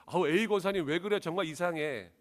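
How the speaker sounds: mild mock complaint from a wife; upset wife. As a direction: complain like a hurt wife back from church. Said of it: "너무 속상해서 남편에게 이야기했어요".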